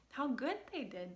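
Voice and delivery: ordinary talk, nothing marked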